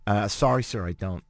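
lightly put-on Canadian accent, low; faked Canadian accent. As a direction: badly fake a Canadian accent. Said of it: "This accent's horrible".

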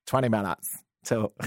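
put-on a light, barely shifted Canadian accent, valley-girl lilt; mock a Canadian woman, hardly changing the voice; lightly voiced Canadian impression; terrible Canadian impersonation. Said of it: "This isn't my generic Canadian. It's just a terrible impersonation".

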